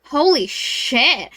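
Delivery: slow, drawn-out mock awe; awed exclamation. An marvelling at the shirtless professor, slowly awed. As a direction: stretch both words out, marvelling.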